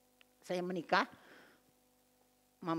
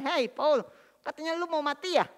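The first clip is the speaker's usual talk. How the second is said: rough and blunt; 8 semitones higher, 5 dB louder than usual. Retold or imitated. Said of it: "Kasar banget".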